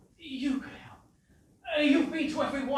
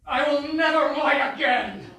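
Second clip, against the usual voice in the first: despairing; 4 semitones higher, 7 dB louder than usual. Acted. Writer gives up dramatically.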